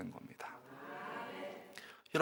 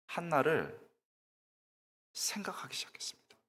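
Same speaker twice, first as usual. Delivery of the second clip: awed whisper; 8 dB quieter than usual. Acted. Awed hushed narration.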